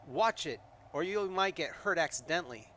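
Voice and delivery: angry shout at the small creature. Acted. Player shouting at the little creature, angry. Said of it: "you shout".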